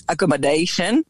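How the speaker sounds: accommodation said the French way, akɔmodeʃən; French-style pronunciation. Shown as a demonstration. To the host, accommodation said the French way. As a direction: say accommodation with French vowels, stress at the end. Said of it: "So for example".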